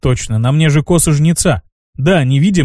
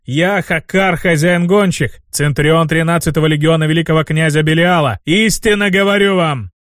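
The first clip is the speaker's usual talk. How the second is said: stately self-announcement, rising at the end; mildly grand demon's address; booming proclamation; 2 semitones higher than usual. A narrator's reading. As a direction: proclaim your titles to a crowd. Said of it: "Рокотом пронёсся по джунглям мой голос".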